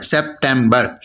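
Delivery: सेप्टेम्बर in three even beats, सेप-टेम-बर; syllable-marked word. Shown as a demonstration. Teacher putting the syllables together, सेप-टेम-बर evenly marked. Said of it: "three syllable हैं".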